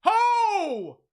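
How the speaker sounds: high loud frightened exclaims; scared excited shouting. Real, not acted. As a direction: yelp in real fright. Frightened reaction to video.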